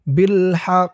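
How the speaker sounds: final q released with an echo; qalqala on ق. Shown as a demonstration. Teacher showing how to pause, bounced q. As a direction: stop on haqq with a bounced q. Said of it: "উচ্চারণ হবে".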